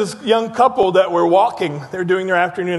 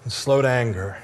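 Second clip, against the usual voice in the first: soft, quiet; 9 semitones lower, 5 dB quieter than usual. Acted. Scripture read quietly.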